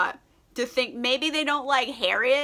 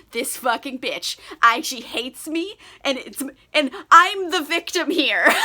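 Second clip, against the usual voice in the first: laughing mock Emma; 3 semitones higher, 5 dB louder than usual. Mocking Emma's self-pity to viewers, laughing. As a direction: play the self-pitying brat, cracking up.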